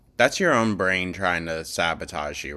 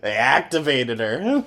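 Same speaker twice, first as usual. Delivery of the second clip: laughs the words out, high and loud; can't hold the giggle back while talking; laughing; 6 semitones higher, 5 dB louder than usual. Real, not acted. Joking about the streamer smelling funnel cake, laughing.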